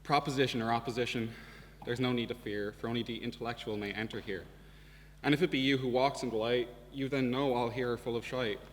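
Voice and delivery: reading a gate plaque aloud in mock grandeur; mock-solemn inscription. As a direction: declaim it like a mock-epic inscription. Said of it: "It read".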